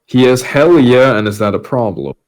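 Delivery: ordinary delivery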